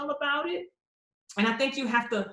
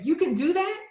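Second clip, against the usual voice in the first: raised, wide-eyed disbelief; amazed; 5 semitones higher than usual. Retold or imitated. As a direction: gasp at the discovery, voice up high. Amazed at Clifton's book.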